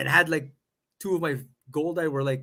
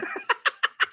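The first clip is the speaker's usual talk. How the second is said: squeaky otter voice. Retold or imitated. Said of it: "have never done an otter impression before".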